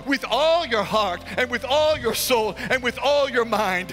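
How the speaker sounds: driving, insistent sermon delivery; forceful preaching. Real, not acted. Preacher charging fellow ministers to please the Lord, forceful preaching. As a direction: preach it in emphatic, rhythmic phrases.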